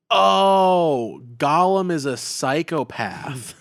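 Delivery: high, slow dawning realization, lightly voiced; dumbfounded Frodo. Frodo realizing mid being fed to a spider, slow and high. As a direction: gasp then say it slowly as it sinks in. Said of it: "Frodo's like".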